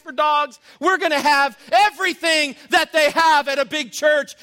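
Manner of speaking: high, insistent rattled-off list; fired up. Acted. Mimicking pastors who want every ministry, fired up.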